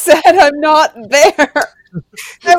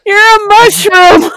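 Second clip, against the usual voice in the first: excited exclaim; 7 semitones higher, 7 dB louder, slower than usual. Real, not acted. Player exclaims at the mushroom reveal.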